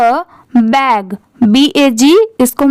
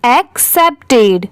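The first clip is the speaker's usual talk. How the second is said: एक्सेप्टेड slowly, in separate syllables; syllable-by-syllable model. Shown as a demonstration. Teacher puts the word together for pupils, slow syllables. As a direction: break एक्सेप्टेड into ek-sep-ted for learners. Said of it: "तो पूरा क्या हो जाएगा?".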